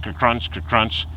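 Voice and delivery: repeated ker-crunch noise; spoken crunching sound effect; imitated crunching. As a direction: mimic a grinding bearing in rhythm. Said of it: "That was going ker-crunch".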